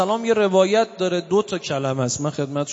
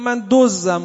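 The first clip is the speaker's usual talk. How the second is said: louder retold call from behind the curtain; 3 semitones higher, 5 dB louder, slower than usual. Thief calling through the curtain to the class, a loud call. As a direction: call it out boldly, mock loud. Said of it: "یه نفر با صدای بلند گفت".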